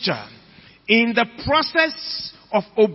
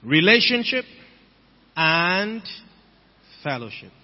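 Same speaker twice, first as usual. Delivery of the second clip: Relationship and fellowship spaced apart with pauses; stressed repeat. Shown as a demonstration. Repeating the key words to the congregation, spaced. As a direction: separate Relationship and fellowship deliberately. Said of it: "Shall I repeat that?".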